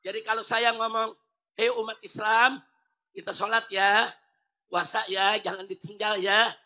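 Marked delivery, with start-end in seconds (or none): 1.6-6.5 gentle invitation. Shown as a demonstration. Preacher kindly inviting believers to pray, gentle. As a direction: invite them kindly, no pressure. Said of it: "Itu saya ngajak".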